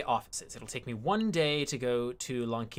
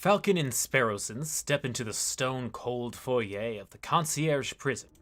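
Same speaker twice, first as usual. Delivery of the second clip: measured, slightly hushed storytelling; narrating the game's scene to viewers; story narration. Acted. Reads game narration.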